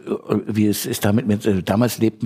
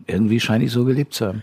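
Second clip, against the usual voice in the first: talking while chewing; words round a bite of food; mouth full; faster than usual. Real, not acted. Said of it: "mit vollem Mund sprechen". (mit vollem Mund)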